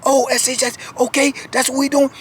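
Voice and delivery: retold startled reaction. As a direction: caught off guard then game on. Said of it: "And he said".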